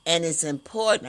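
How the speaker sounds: interrupted by a hiccup; hiccuping mid-sentence. Real, not acted. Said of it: "I got the hiccups".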